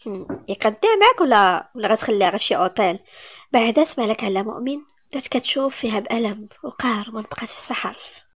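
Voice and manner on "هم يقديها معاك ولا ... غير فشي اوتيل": mocking. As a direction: drag out the insult with contempt. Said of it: "شافت فيهم باستهزاء".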